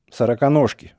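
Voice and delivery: a sudden spiteful jab; the old man lashes out at Ivan's generation; angrily. A narrator's reading. Старик вдруг зло бросает Ивану. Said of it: "вдруг зло сказал он".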